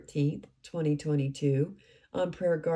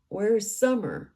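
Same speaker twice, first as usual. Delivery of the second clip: raised-pitch, half-hearted mock yell; retold yell; 4 semitones higher, 3 dB louder, slower than usual. Panel host demanding to know about Summer, mild mock yell. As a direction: quote someone calling out, only lightly raised. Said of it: "Prayer Garden is again yelling out".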